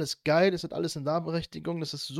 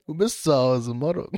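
laughing while talking; words broken by giggles; giggling; 5 dB louder than usual. Real, not acted. Giggling stoned friends.

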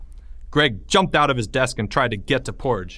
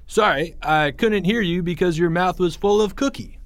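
loudly; 7 semitones higher than usual. A narrator's reading. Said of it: "said Greg loudly".

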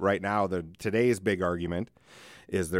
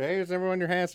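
cheesy MC; 9 semitones higher, faster than usual. Retold or imitated. Quoting himself as MC.

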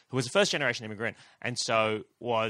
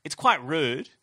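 warning; 4 semitones higher, 7 dB louder, much slower than usual. Retold or imitated. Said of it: "I was like".

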